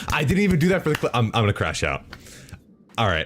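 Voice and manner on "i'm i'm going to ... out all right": ordinary talk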